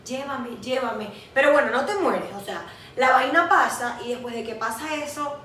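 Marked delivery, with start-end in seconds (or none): 0.1-1.1 slow, drawn-out begging; playful dying entreaty; mock plea. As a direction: beg to be taken, half-joking. Acted plea to the saint.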